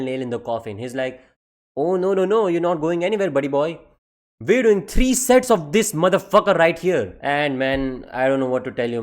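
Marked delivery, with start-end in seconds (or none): 1.8-7.2 louder, gloating teacher; lightly voiced teacher springing the trap. Teacher ordering three more sets, gloating.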